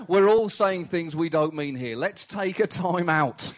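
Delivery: a lightly voiced diplomat calming everyone down; peacemaker Kofi Annan. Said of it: "Kofi Annan jumping in the middle going".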